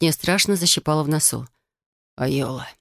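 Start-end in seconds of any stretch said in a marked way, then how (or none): 2.2-2.7 low, soft, hoarse voice. A narrator's reading. Broken young man greets her through the door, hoarse. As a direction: rasp the name weakly. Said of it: "голос совсем осип".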